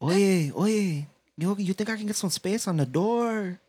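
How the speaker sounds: a weak put-on Latino accent; lightly faked Cuban-Mexican voice; mock Cuban Mexican asking for room; bad Cuban Mexican accent. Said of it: "It's like a Cuban Mexican".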